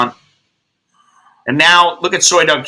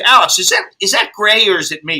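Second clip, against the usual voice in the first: high, worried question; 5 semitones higher than usual. Retold or imitated. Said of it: "And then I said".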